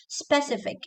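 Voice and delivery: "Specific" with no vowel after S; S straight into P. Shown as a demonstration. Teacher giving the right form, clean SP in "Specific". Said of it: "Sebe is wrong".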